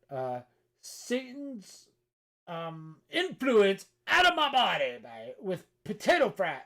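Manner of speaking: high, booming, drawn-out hammed-up cry; mock exorcist shout. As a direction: bellow it slowly like a mock exorcism. Mock exorcism by potato fries.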